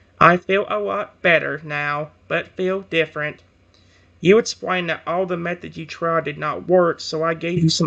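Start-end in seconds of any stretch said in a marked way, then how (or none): 0.2-3.4 mechanical robot-like voice, flat tone. Voicing a reply after being asked what it did, robotic tone. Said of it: "says to you in a robotic tone".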